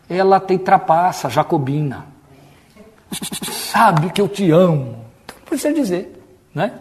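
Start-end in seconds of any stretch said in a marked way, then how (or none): 3.5-5.0 slow, drawn-out pleading to God; mock prayer. Preacher mimicking our everyday prayers, affected devotion. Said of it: "tem as nossas orações".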